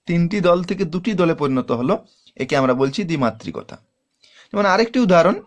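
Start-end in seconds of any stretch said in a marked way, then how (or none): none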